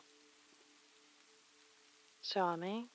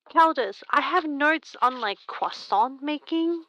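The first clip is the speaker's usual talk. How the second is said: playful protest; 6 semitones higher, 6 dB louder than usual. Real, not acted. Playful indignant defense to Caldus.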